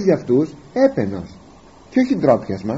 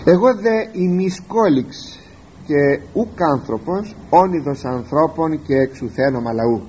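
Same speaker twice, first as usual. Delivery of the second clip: solemn scripture reading. Acted. Reads psalm verse solemnly.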